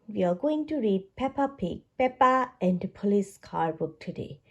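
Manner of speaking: bright, friendly storybook intro; cheerful read-aloud welcome; reading to children. Acted. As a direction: greet the little ones like a kids' reader.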